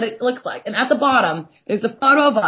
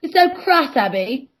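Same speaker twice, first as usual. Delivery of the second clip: mocking impression; 4 semitones higher, slower than usual. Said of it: "You're like".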